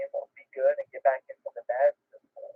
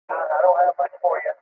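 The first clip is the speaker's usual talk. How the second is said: staticky radio. Real, not acted. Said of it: "There's a bunch of static in there".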